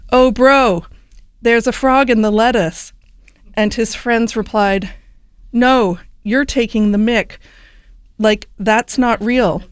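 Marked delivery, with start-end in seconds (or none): 0.1-2.9 put-on light Australian accent; a hint of Australian twang. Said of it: "in my best Australian accent here". 5.5-9.6 put-on weak Australian accent; a lightly put-on Australian accent. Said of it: "I really can't do an Australian accent".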